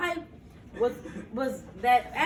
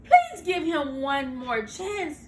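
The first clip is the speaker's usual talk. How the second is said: slow, earnest plea; pleading; 3 semitones higher, 5 dB louder, slower than usual. Acted. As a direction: beg slowly for one more chance. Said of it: "pleaded Jiminy Cricket".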